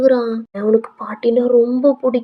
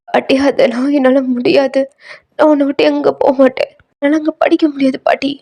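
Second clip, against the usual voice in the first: higher-pitched, mildly distressed protest; upset grandson; 3 semitones higher, 4 dB louder than usual. Acted. Grandson refusing to leave grandmother for college, upset protest. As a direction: refuse earnestly, lightly acting the grandson.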